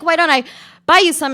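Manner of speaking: a flirting stranger offering ice cream, high and loud; eager offer. Acted. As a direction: lay on the charm to win her.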